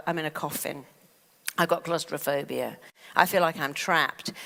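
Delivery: understated claustrophobic dread; lightly acted trapped feeling; negative self-talk. Coach testing the opposite words in the scanner, mildly trapped. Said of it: "Let's do the opposite".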